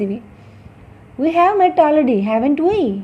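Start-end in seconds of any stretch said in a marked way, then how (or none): 1.2-3.0 slow statement, then "haven't we" lifting as a real question; rising tag question. Shown as a demonstration. Teacher models a question tag needing an answer, rising intonation. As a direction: raise "haven't we", wanting an answer. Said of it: "question tags that show uncertainty and require an answer".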